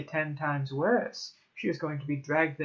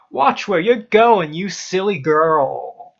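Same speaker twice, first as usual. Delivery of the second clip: furious bellow; 3 semitones higher, 15 dB louder, slower than usual. A narrator's reading. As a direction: bellow it in sudden rage, stretching the end. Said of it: "face red, and bellowed".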